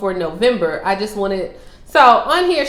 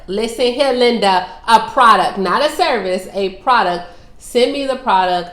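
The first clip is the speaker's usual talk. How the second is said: louder, hammering home the word product; emphatic insistence; 2 semitones higher, 7 dB louder than usual. Real, not acted. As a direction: drive the point home like a firm reminder. Insisting viewers send a product.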